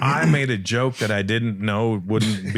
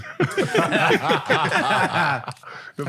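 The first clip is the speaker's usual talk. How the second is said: high-pitched laughing fit. Real, not acted. Host laughs at his own joke, high laugh. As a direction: crack up in a high voice. Laughs at Devontae Swing line.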